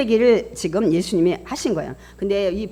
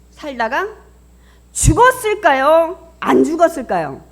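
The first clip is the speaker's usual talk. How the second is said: loud, high, drawn-out question; emphatic questioning; 7 semitones higher, 10 dB louder, slower than usual. Real, not acted. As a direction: press the congregation hard with both choices. Presses key question on congregation. (힘주어 또박또박 묻기)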